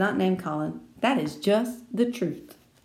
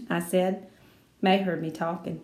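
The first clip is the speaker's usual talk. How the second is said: ordinary delivery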